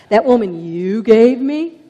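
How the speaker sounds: loud, defensive finger-pointing; Adam loudly blaming the woman. Acted. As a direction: shout the blame onto her. Adam blaming Eve to God.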